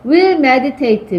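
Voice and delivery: will meditate, very slow, falling; slow dictation of will meditate; slow reading. Shown as a demonstration. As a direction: spell out will meditate slowly. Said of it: "나는 주어져".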